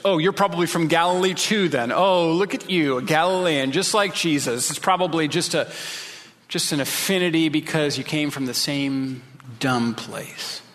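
lightly imitated taunting, easing off toward the end; mock him for where he comes from. Pharisees going after Nicodemus for credentials, mildly mocking.

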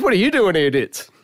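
lightly voiced teasing host; a hint of the host ribbing Ditz; imitating BT. Host BT teasing Ditz on stage, light imitation. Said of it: "he turns around to Ditz and he goes".

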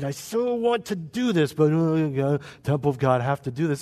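mock frustrated craving, then a grudging drop; mock reluctant whining. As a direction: play someone who wants to but grudgingly can't. Mimics a reluctant, constrained believer.

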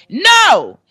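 loud, high yelled retort; a singer. Retold or imitated. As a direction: imitate him yelling back sharply. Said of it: "he yells back".

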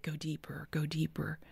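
very soft, near-whispered nudge; hushed urging. Retold or imitated. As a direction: urge gently under your breath. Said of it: "the Holy Spirit is like".

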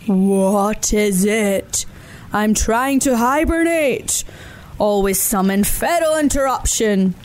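slow, lightly voiced grumpy bear; grumbling bear. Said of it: "he grumbled".

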